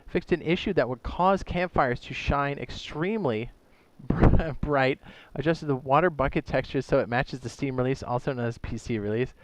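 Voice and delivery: winded from reading a long list; slightly breathless, gasping between phrases; out of breath. Real, not acted. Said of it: "I'm running out of breath".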